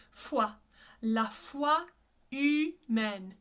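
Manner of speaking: La foi humaine, humaine as oo-MEN, silent H. Shown as a demonstration. Coach showing the silent French H. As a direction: drop the H in humaine. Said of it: "No H".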